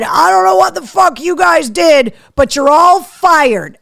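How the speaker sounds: mock furious firing; retold outburst. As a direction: blast the room like the furious boss. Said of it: "to the conference room and said".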